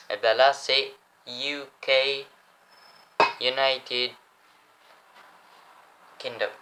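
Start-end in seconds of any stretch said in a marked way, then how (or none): 1.3-6.5 slow English accent with gaps between words; careful English accent from a French speaker; showy English accent. Shown as a demonstration. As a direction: show off an English accent, word by word. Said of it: "Comment je me la pète avec mon accent".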